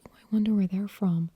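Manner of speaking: neutral general American accent, passing remark; classic American accent. Shown as a demonstration. Imagining a listener's thought, neutral American accent. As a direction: wonder aloud in an unremarkable American accent. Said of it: "what you would call the classic American accent".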